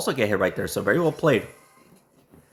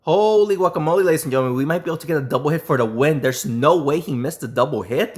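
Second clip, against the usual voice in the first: excited; 4 semitones higher, 3 dB louder than usual. Real, not acted. Sudden comeback chance in match.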